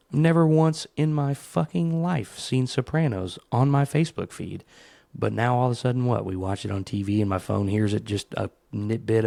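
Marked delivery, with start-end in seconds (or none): 0.1-4.6 indignant disbelief. Retold or imitated. Man telling his phone he never searched for Sopranos, indignant. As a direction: protest like you've been caught out. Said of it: "And I'm like".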